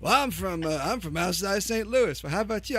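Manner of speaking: mock small-town American accent; default non-city accent. Saint Louis native asking back, mock non-city accent. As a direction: lightly put on a generic non-city accent. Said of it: "default non-city accent".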